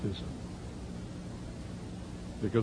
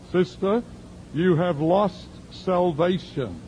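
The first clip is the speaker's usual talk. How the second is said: voicing the woman; 7 semitones higher than usual. Woman retells elders' verdict.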